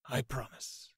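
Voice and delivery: bow and swear it softly; solemn vow. A narrator's reading. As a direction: knight quietly pledging to the girl. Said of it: "The White Knight bowed his head".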